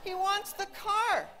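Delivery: laughing through the punchline, pitch up; can't hold back a laugh. Real, not acted. Mother laughing at her son's car scheme.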